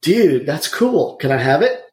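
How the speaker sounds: lightly imitated surfer dude; a hint of a slow laid-back surfer. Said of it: "In his surfer voice".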